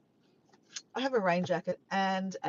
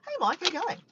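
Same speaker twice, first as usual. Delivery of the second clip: calling out; 12 semitones higher, 4 dB louder than usual. Real, not acted. Greeting a passer-by.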